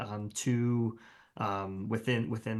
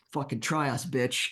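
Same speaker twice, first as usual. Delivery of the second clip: louder, higher playful challenge; mock taunt; 4 semitones higher, 6 dB louder than usual. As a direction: dare them, as a hammed-up threat. Voicing the scorpions' threatening display.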